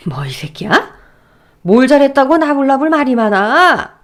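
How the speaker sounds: whispered snarl bursting into a loud yell; furious father. Acted. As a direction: hiss then explode. Father erupts at son-in-law. (사위에게 폭발하는 아버지)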